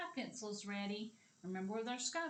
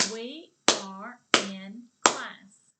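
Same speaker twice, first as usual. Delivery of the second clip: each word called loud and slow; slow loud clapping chant; 15 dB louder, slower than usual. Shown as a demonstration. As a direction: clap out every word loudly. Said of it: "Clap it with me".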